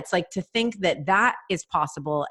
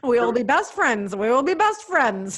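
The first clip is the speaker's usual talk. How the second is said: the voice on request; 6 semitones higher than usual. Pretend. Asked by her friend to do the voice, a sky-high giddy squeal. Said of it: "the perfect, perfect voice for this".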